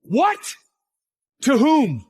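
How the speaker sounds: high, incredulous questions; shocked outrage. Acted. Relative learns the land was sold, shrieked disbelief. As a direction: shoot the pitch up in disbelief.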